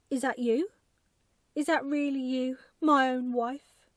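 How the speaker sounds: loud, high astonished cry; crying out in disbelief. A narrator's reading. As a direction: shout it out, amazed and overjoyed. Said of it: "he cried".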